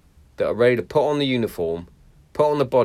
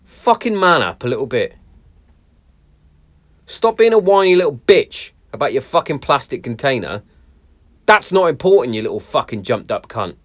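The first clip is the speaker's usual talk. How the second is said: loud sweary rant; swearing tirade; 2 semitones higher, 4 dB louder than usual. Real, not acted. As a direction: rant like a fed-up soldier. Ranting insults at snowflakes.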